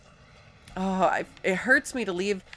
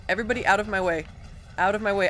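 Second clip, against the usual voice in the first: louder, pushing through; loud urgent; 4 dB louder, much faster than usual. Real, not acted. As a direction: call it out while running. Running past enemies.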